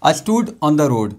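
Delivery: slow, clear classroom reading; slow example read. Shown as a demonstration. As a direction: read it out slowly for learners. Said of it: "यहाँ पे D आ रहा है". (धीमे साफ़ उच्चारण)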